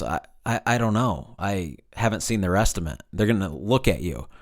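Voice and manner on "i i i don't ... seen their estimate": softer, halting and puzzled; quietly baffled reply to a pushy customer; confused voice. Shown as a demonstration. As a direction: stumble as if caught off guard. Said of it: "in a confused voice".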